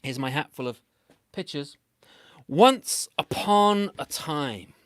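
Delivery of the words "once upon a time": storybook opening. A narrator's reading. Opens the story formally.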